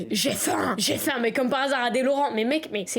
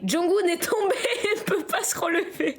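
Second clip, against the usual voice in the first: higher, breaking into laughter; laughing wail; 4 semitones higher than usual. Real, not acted. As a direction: report the fall while cracking up. Cracks up as character falls. (hilare, voix plaintive qui monte)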